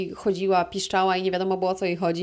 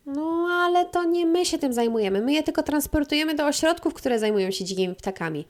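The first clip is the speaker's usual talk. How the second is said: receptionist voice; 7 semitones higher than usual. Retold or imitated. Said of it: "receptionist replies".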